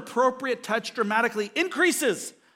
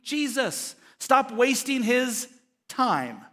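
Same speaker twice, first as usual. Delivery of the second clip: slow, emphatic rebuke, word by word; scolding; 3 semitones higher, slower than usual. Acted. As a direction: order them sternly to stop. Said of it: "what they were saying to the parents".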